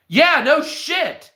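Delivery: very high, drawn-out obviousness; high, slow sarcastic agreement; exasperated retort. Retold or imitated. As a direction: stretch it out like it's blindingly obvious. Sarcastic retort in retold argument.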